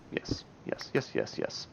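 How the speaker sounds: whispered yes to himself; whispering. Real, not acted. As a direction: breathe the words unvoiced. Muttering to himself while building.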